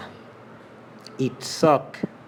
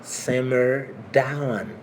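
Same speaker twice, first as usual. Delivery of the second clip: slow model phrase; much slower than usual. Shown as a demonstration. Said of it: "Bi yon ka di l tou".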